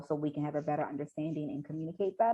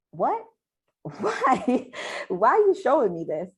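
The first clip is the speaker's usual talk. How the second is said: high, loud startled questions; incredulous questioning; 7 semitones higher, 7 dB louder, slower than usual. Acted. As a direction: act out her disbelief, loud and pitched up. Acting out her shocked reaction.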